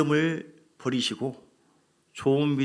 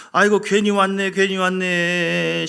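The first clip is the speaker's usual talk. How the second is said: louder, drawn-out moan of regret; mock wailing lament; 2 semitones higher, 5 dB louder, slower than usual. Israelite spies lamenting to the people, slow mock wail. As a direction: wail it slowly like a people who regret coming. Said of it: "밤새도록 통곡하고 웁니다".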